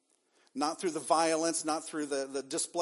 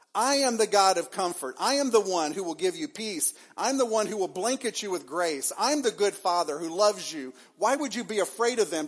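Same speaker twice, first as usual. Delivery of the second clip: louder, higher, fervent declaration; impassioned preaching; 4 semitones higher, 5 dB louder than usual. Acted. Preacher voices God reassuring the fearful church, louder. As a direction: proclaim it to the back pew. Preacher voicing God's comfort.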